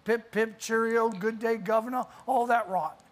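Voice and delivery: lightly hammed-up British accent; mock British accent. Preacher joking about America still being British, in a light mock British accent. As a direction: put on a playful stock British accent. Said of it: "speaking with a British accent".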